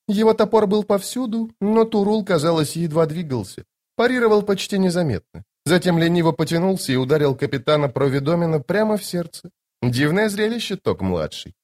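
high lady's voice, confiding; Lady Envy, admiring. Acted. Lady Envy telling Toc of the duel, high and admiring. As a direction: recount it admiringly in a high register.

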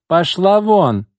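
loud, high scornful yell; furious shout. A narrator's reading. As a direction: throw her out with contempt. Margo drives out the rival.

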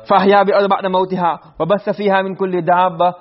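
fast, fluent recitation of the verse; Quran recitation. Shown as a demonstration. Teacher reciting the ayah to students, fast and fluent. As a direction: recite it quickly and evenly.

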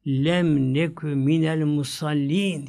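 drawn-out Quranic chant of the verse; slow Quran recitation; slow Arabic recitation. Acted. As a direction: recite the Arabic slowly, as in prayer.

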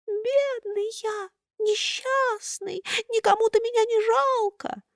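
high, slow, thin pitiful whine; plaintive thin whimper. A narrator's reading. Buratino whines pitifully to Karabas, high thin voice. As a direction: whimper like a pitiful little puppet. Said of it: "подвывать жалобным тоненьким голоском".

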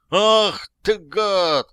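high furious yell, stretched slowly; яростный крик. A narrator's reading. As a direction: roar it at the man who nearly blinded you. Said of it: "заорал тот". (яростный протяжный высокий крик)

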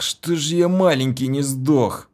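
rasped, winded groan; hoarse croak. A narrator's reading. Narrator croaks after being knocked into the wall. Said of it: "прохрипел я".

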